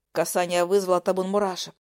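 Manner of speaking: ordinary delivery, nothing marked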